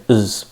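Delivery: "as" weakened to a short "iz"; reduced "as". Shown as a demonstration. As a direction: shrink "as" down to "is". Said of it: "As turns to is".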